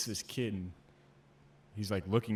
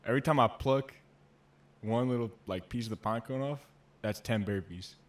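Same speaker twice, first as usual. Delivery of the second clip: lightly imitated instructor laying down punishment; loud opening, settling as it goes; drill instructor; 5 dB louder than usual. Drill instructor announcing burpees to recruits, lightly mock-threatening. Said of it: "He's like".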